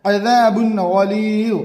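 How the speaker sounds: slow, clear tanween before गैन; slow clear reading of अज़ाबुन गलीज़; izhar recitation. Shown as a demonstration. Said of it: "इजहार".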